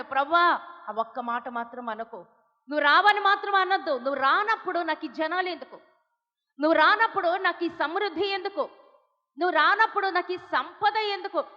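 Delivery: loud, high desperate pleading; pleading cry. Retold or imitated. Moses begging God to come along, loud pleading. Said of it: "మోషేకి అదే తెలిసి ఏడుస్తున్నాడు".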